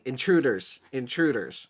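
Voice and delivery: a flat, tinny robot announcing; tinny robotic voice. Acted. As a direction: sound like a tinny security robot. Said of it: "a kind of tinny robotic voice going".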